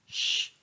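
a soft sh on its own, quiet; isolated sh sound. Shown as a demonstration. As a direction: pull out the sh sound. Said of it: "K Ä". (svagt sje-ljud)

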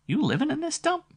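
high, incredulous squeal; surprised. Acted. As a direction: sound scandalised. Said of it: "Flo's sexy voice".

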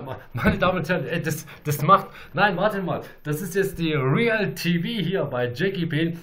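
loud, fast showman's call to the audience; excited announcement. Real, not acted. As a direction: hype up the crowd, loud. Announcing his show to viewers.

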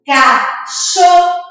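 "Cachorro" slow and high in three separate syllables; demonstrated pronunciation. Shown as a demonstration. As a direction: sound out "Cachorro" as ca, chor, ro. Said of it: "Olha a pronúncia".

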